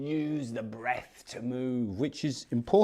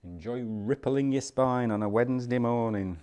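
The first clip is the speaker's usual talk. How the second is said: louder, drawn into a northern accent; 5 dB louder than usual. Real, not acted. Teacher cheering on the movement class, northern accent. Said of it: "I said that in a northern accent".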